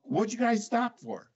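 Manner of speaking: half-shouted, high-pitched retold scolding; screaming cop, retold. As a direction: imitate a cop yelling at kids. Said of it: "he starts screaming at us".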